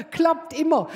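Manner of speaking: loud laugh into "Klappt immer"; laughing nurse. Retold or imitated. Nurse laughs at the patient bending over, amused. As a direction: chuckle it out, amused.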